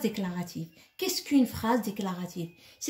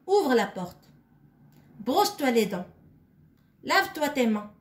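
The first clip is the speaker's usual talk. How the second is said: louder commanding voice, each order firm and separate; giving orders; 2 semitones higher, 4 dB louder than usual. Shown as a demonstration. Teacher acting out sample orders for the pupils, louder and commanding. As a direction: bark out the commands like a parent. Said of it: "ils nous donnent des ordres".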